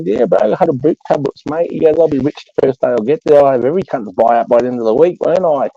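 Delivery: cousin voice. Retold or imitated.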